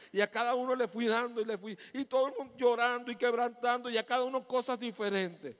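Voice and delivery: preaching climax. Real, not acted. Climax of the story.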